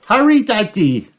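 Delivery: put-on high, urgent child piglet voice; high-pitched hurrying call; urgent Peppa. A narrator's reading. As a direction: urge him on in a high little voice. Peppa urges Daddy to hurry.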